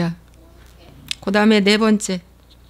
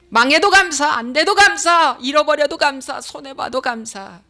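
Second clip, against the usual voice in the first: rising preaching cry; 4 semitones higher than usual. Acted. Preaching chant of thanks.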